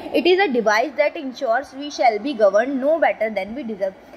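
each word laid out very slowly; slow quote reading. Shown as a demonstration. Teacher to students, reading a quote very slowly. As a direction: read the quote slowly and deliberately for the class.

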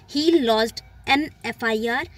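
slow, careful example; slow example read. Shown as a demonstration. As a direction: read it out for the class. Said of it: "सही और गलत sentence को भी दिखाया". (धीमा उदाहरण वाक्य)

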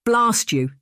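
slow, high strain through gritted teeth. Acted. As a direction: force it out through clenched teeth. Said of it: "she said through gritted teeth".

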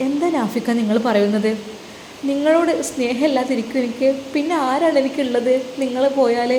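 lightly voiced young wife, earnest and pleading; a hint of a wife clinging to her husband; devoted young wife. Wife assuring husband she loves him, earnest.

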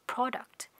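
teacher model word; final T. Shown as a demonstration. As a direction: finish product on a clear T. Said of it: "có âm T ở cuối".

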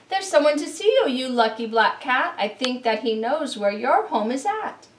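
fast excited herald voice; excited announcement. Acted. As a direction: blurt it out eagerly at the door. Visitor at door, excited quote.

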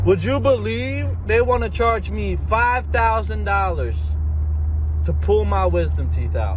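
high-pitched comic indignation; riled-up, high complaint; outraged ranting. Acted. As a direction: protest the price in disbelief. Indignant rant about dental bill.

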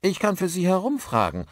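high, obliging character voice; helpful offer. A narrator's reading. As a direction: offer your help readily. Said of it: "bot Beeson hilfsbereit an".

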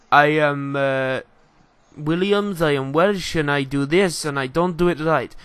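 lightly put-on Russian accent; hint of a mock Russian accent. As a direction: imitate a player in a makeshift Russian accent. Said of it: "put the Russian accent on like that".

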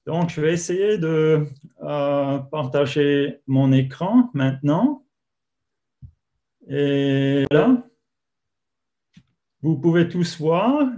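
rusty French with an English accent; halting French, German-speaker accent; broken french. Real, not acted. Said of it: "Mon français est assez enrouillé".

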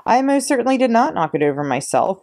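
roared denial. A narrator's reading. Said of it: "roared the Trunchbull".

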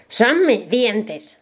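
shouted. Acted. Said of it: "gritó el brujo".

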